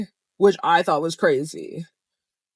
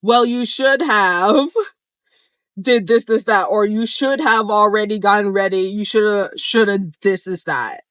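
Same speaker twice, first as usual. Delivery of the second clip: mocking friend; 3 semitones higher, 5 dB louder than usual. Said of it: "what she said".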